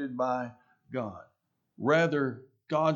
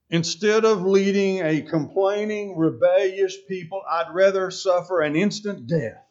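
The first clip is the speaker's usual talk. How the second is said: raised, emphatic protest in a lightly acted quote; Moses; 3 semitones higher, 5 dB louder than usual. Preacher voices a leader complaining to God, emphatic protest. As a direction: protest it forcefully, as a fed-up leader. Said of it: "can you imagine Moses saying that".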